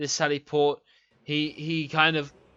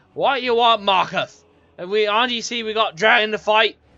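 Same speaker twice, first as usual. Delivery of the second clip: put-on loud, high, tipsy drunk-sounding dwarf voice; 6 semitones higher, 7 dB louder than usual. Narrator voices a dwarf addressing the group, drunk-sounding dwarf voice. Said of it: "He sounds like he's particularly drunk".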